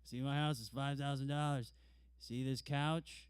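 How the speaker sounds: slow, bragging boss voice; boss voice without accent. Retold or imitated. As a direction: show off the house slowly. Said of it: "I'm not gonna do a Pakistani accent".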